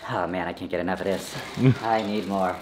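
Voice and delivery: cartoon chipmunk after helium. Real, not acted. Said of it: "I sound like an alien".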